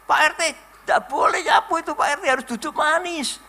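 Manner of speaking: high-pitched mock call from the ladies; playful mock yell at the neighbourhood head; retold shout. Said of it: "ibu-ibu teriak".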